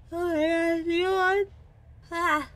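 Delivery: sudden high, loud yelp of alarm; real startled exclamation; startled outburst. Real, not acted. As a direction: jump at something unexpected. Startled outburst mid-line.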